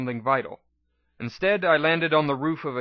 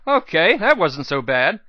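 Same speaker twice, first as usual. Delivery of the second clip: with a laugh; 3 semitones higher, 5 dB louder than usual. Acted. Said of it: "I said with a laugh".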